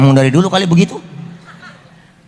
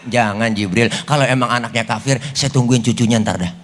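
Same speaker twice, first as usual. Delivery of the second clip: patient calm; 5 semitones lower than usual. Retold or imitated. Prophet patiently answers angry Jibril.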